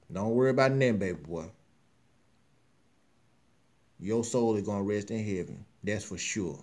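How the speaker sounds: soft, low, grieving words; emotional farewell. Real, not acted. Host softly bidding Brother Cornell rest in peace, grieving. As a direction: gently comfort a lost friend. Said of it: "I'm being emotional about it".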